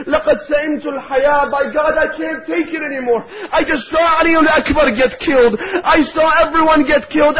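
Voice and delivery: pleading lament. Acted. Orphaned nephew begs his uncle Imam al-Hussein, grieving plea. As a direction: beg like a grieving boy who has lost everyone.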